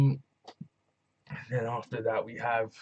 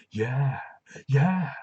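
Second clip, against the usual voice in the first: a rising, louder yeah yeah; eager agreement; 3 semitones higher, 5 dB louder than usual. Retold or imitated. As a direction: answer with hungry glee. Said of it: "And Ilya goes".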